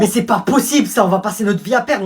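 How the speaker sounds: acted indignation at a humiliating loss; outraged. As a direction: protest loudly in disbelief. Prince rages at goal conceded.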